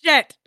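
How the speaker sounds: emphasis on "shit"; stress on shit. Real, not acted. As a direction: hit "shit" hard. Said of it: "Emphasis on the shit".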